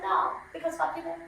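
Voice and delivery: laughing shout. Retold or imitated. Punchline retort to the mother.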